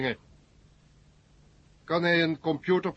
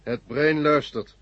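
slow brain voice; slower than usual. Acted. The brain answers slowly.

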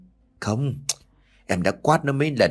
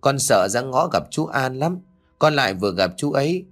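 lightly voiced young child, higher and scared; a small boy telling a scary dream; hint of a child's timid voice; frightened little boy; 3 semitones higher than usual. Child Tiến voiced by narrator.

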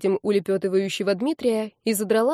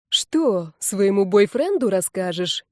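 slow, mock-tender teasing; sugary sweet voice; slower than usual. Classmate teases her about her boyfriend in a mock-sweet little voice. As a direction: coo it sweetly to needle her. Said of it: "нежным-нежным голосочком".

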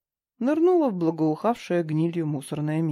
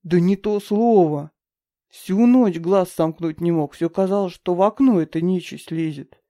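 spooked; 6 dB louder than usual. Acted. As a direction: still shaken by the show. Frightened man recalls sleepless night.

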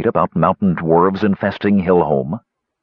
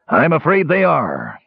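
gentle; 8 semitones higher than usual. A narrator's reading. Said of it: "his tone gentler".

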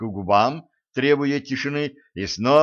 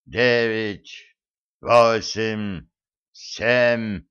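god of war voice; slower than usual. Acted. Mars threatens and counts down.

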